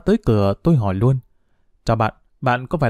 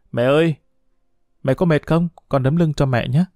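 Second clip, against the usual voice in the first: wheedling. Acted. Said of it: "Tôi xà vào lòng mẹ nũng nịu".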